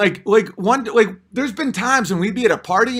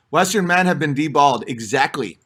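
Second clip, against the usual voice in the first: usual speaking voice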